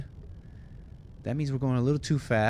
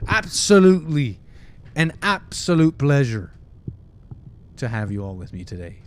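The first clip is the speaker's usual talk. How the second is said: hammed-up gushing; 2 semitones higher, 7 dB louder than usual. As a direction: belt it out with exaggerated pleasure. Playfully flaunts the mocked word.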